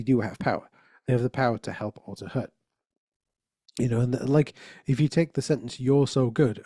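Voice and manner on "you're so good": "You're" pressed a little harder, falling on "good"; stress on YOU'RE. Shown as a demonstration. Speaker showing the audience shifting stress, leaning on "You're". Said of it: "put a different emphasis on each of the different words".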